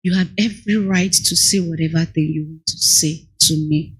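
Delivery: calm him down gently; apologetic, soothing. Retold or imitated. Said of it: "I said".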